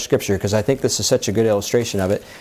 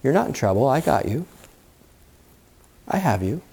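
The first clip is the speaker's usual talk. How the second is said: voice of God; 3 dB quieter than usual. Acted. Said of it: "if we could hear the voice of God".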